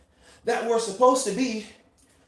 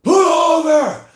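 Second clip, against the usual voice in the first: loud, higher call to the driver; sudden commanding shout; insistent inner voice; 7 semitones higher, 9 dB louder, slower than usual. Acted. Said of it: "then the voice says again".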